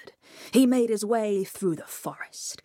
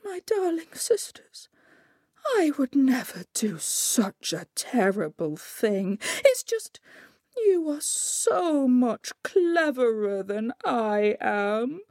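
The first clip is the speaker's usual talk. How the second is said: high, effusive, pleading Coyote; gush, then beg with a long drawn-out ending; wheedling Coyote; 8 semitones higher than usual. A narrator's reading. Coyote begging his three sisters for help, wheedling.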